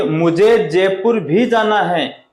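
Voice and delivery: slow, भी after जयपुर pressed; stress on जयपुर भी. Shown as a demonstration. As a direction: lean on "जयपुर भी". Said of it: "फिर देखिए".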